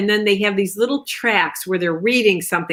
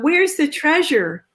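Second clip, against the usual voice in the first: high, slow reading that keeps the tag in the same tune; lightly mocked audiobook narrator; imitating bad narrator; 9 semitones higher, slower than usual. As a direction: mimic a narrator who reads the dialogue tag like the line. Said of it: "she would say".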